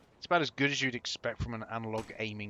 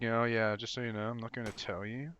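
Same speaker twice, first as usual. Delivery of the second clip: mock game voice; 3 semitones lower, 5 dB quieter than usual. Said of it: "it's like".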